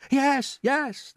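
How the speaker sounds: very high, eager chorus; all shout yes together. A narrator's reading. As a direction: friends keen to go upstairs. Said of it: "they chorused".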